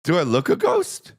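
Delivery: hammed-up shouted impression; shouted imitation. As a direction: yell the quote for laughs. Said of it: "That's what she said".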